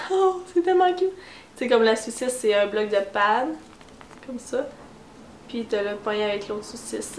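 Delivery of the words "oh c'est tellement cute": delighted gushing. Real, not acted. Laughs, gushing over hot dog post-its.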